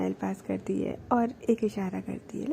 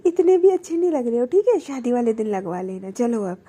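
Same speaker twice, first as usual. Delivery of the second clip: playful teasing; 7 dB louder than usual. Retold or imitated. Baani teasing Prachi back.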